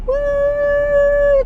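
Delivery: high, loud whoop; little celebratory woo; excited whoop. Real, not acted. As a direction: cheer it out high. Cheering the day.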